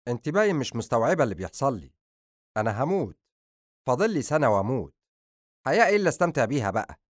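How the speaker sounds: fast, agitated protest rising in pitch; sharp, agitated. Acted. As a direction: snap it out sharply, rushing the words. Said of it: "تحرك أدهم بعصبية وقال بصوت حاد".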